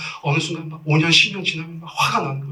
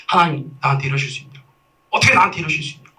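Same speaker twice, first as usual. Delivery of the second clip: mildly angry acted complaint to God, building faster; angry protest; faster than usual. Preacher acts out a patient railing at God, mild angry protest. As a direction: protest to God, picking up pace and force. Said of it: "막 화를 낸다는 거예요".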